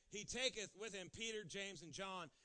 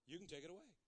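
hushed prayer; 7 dB quieter than usual. Acted. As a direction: pray it quietly, close in. Soft prayer voiced.

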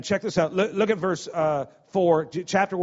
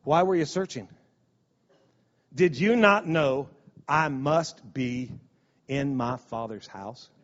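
gentle Jesus; 4 semitones lower, slower than usual. Retold or imitated. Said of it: "And Jesus said".

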